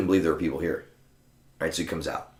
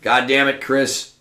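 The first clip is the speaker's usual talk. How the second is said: loud, higher-pitched indignant complaint; Siva Cass, annoyed; 7 semitones higher, 6 dB louder, slower than usual. Retold or imitated. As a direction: imitate a blunt friend griping, the opposite of apologetic. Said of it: "let me contrast that to what Siva Chris would".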